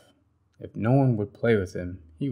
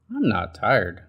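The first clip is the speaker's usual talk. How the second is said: stubborn Bird; 3 dB louder than usual. Acted. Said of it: "said Bird".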